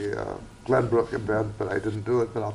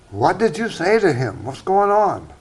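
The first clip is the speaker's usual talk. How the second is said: high, animated incredulous questioning; guard's baffled demand; 6 semitones higher, 4 dB louder than usual. Acted. Guard in a joke asking the Christian, incredulous. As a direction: ask it high and urgent, acting baffled. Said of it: "So the one guard said".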